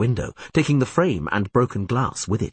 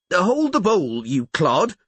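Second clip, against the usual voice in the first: higher, louder scolding yell; 11 semitones higher, 3 dB louder, slower than usual. A narrator's reading. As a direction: snap at the clumsy girl. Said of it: "yelled the innkeeper".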